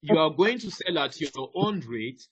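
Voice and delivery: usual speaking voice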